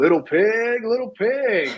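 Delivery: slow, high, every word stretched and drawn out. Describing a scene, imitating Negan's taunt: Negan impression. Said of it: "Negan's like".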